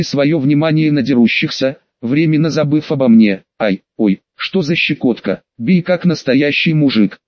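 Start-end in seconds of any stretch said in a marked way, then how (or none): none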